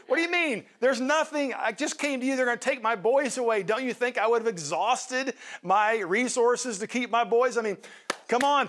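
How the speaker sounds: a desperate mother protesting to the prophet; exasperated widow. Retold or imitated. Widow protesting to the prophet Elisha, high and indignant. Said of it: "I like how she emphasizes, it's like".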